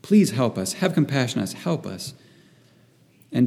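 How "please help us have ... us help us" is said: understated entreaty in short bursts; retold pleading. Preacher voices the desperate father asking Jesus for help, mildly pleading. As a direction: press the plea, then let it fall away. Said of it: "this man is pleading".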